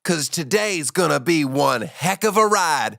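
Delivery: high put-on voice. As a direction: pitch way up like a cheesy TV host. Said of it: "You sound a little different".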